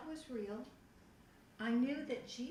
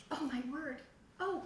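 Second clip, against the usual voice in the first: amazed; 5 semitones higher than usual. Retold or imitated. Retelling amazement while reading.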